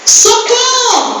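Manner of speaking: drawn-out, high mock call for help; mock drowning man crying out, stretched and high; hammed-up cry for help. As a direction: wail socorro like a drowning man. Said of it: "ele gritava".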